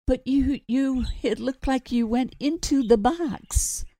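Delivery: rattled mother. Acted. Mother shaken after seeing vanishing.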